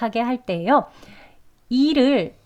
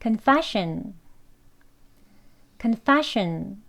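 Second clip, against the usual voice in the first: confession with stress on fe; much slower than usual. Shown as a demonstration. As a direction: say confession, leaning on fe. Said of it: "두 번 하겠습니다".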